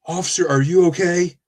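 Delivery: a hint of a tiny man asking. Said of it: "This tiny little man is standing there".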